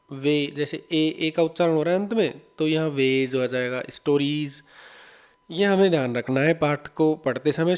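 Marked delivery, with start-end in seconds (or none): 2.9-3.4 "वेज" with a voiced z after the ay vowel; Z sound at the end. Shown as a demonstration. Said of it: "जय का उच्चारण होगा". 3.9-4.6 "स्टोरीज" lower, ending in voiced z; Z sound at the end. Shown as a demonstration. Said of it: "जय का उच्चारण होगा".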